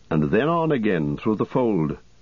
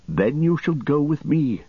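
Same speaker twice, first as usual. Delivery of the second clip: lightly voiced young rider, pitched higher; hooded young rider, hushed and earnest, voiced higher; 7 semitones higher than usual. Dernhelm voiced by narrator.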